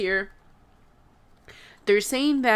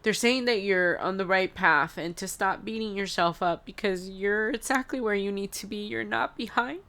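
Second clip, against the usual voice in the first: tearful; 2 semitones higher than usual. Real, not acted. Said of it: "Sorry, guys".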